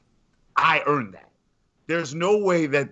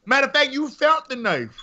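a sarcastic jab; sarcastic one-up; 10 semitones higher than usual. Real, not acted. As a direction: jab at him with mock certainty. Sarcastic escalation in banter.

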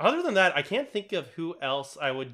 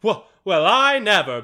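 loud, higher-pitched huffy exclamation; screwball fat guy; 6 semitones higher, 11 dB louder than usual. Acted. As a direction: play the stock blustering screwball character. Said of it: "fat guy that just goes".

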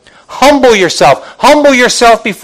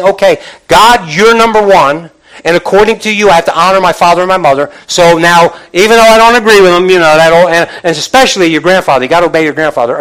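louder, earnest prayer to God; young person praying; 3 dB louder than usual. Retold or imitated. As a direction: pray it like a stubborn teen giving in.

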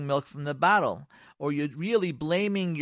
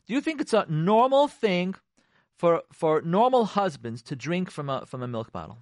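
accusing question; 2 semitones higher, 4 dB louder than usual. Retold or imitated. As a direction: make the question a reproach. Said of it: "That's called question criticism".

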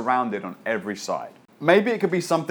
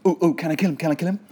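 eager mock king; 5 semitones higher, much faster than usual. Eager king voiced jokingly.

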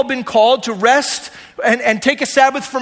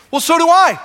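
triumphant punchline; 5 semitones higher, 4 dB louder than usual. Acted. Jesus' punchline claim.

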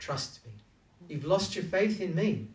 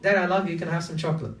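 put-on a child sweetly asking for chocolate; 2 semitones higher, 6 dB louder, faster than usual. Shown as a demonstration. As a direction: ask Dad like a kid buttering him up. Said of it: "flip it".

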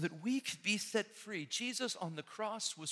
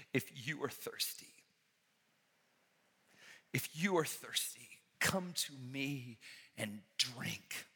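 gentle invitation; 2 semitones lower than usual. Acted. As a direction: whisper it tenderly, as an offer.

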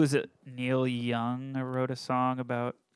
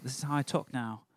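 put-on British accent. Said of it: "I'd have to do the British accent too".

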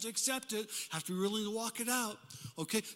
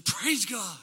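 preacher's praise; 5 dB louder than usual. Retold or imitated. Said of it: "a preacher would say".

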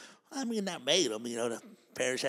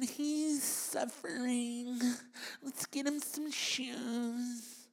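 high, hushed, syrupy pity for the homeless; mock fake-sympathy voice; 10 semitones higher, 6 dB quieter, slower than usual. Comic mocking holiday do-gooders, higher and soft. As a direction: coo over the poor man like a do-gooder.

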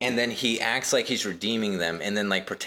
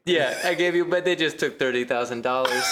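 mock crying scammer; 4 semitones higher than usual.

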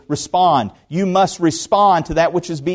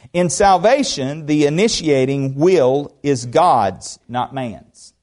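slow emphatic reading; 3 semitones lower, slower than usual. Shown as a demonstration. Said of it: "Did you hear that?".

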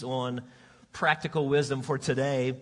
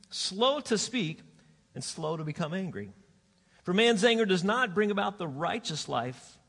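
scripture reading; 2 semitones higher than usual. Acted. Reads scripture aloud.

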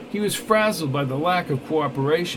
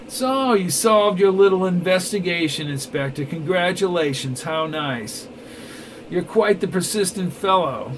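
a light sneering villain voice; mocking villain; 3 semitones higher than usual. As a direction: gloat over the beaten inspector. Neville mocks the inspector.

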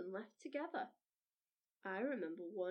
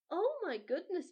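excited exclamation; 6 semitones higher, 7 dB louder than usual. Real, not acted. Host reacts after story.

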